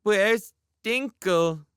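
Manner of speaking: put-on high, slow wailing child; crying child. A narrator's reading. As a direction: wail it like a tearful toddler. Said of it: "He started to cry".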